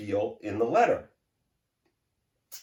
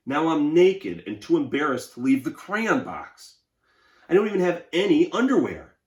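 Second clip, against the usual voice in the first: lightly voiced, a bit higher, fretful crayon; embarrassed Peach Crayon; 3 semitones higher, 3 dB louder than usual. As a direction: plead for clothes, a touch embarrassed. Teacher reads Peach Crayon's letter.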